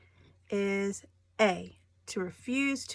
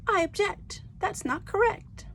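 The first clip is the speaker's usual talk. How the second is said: courtroom objection; 11 semitones higher than usual. Acted. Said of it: "If you don't like something that a lawyer says".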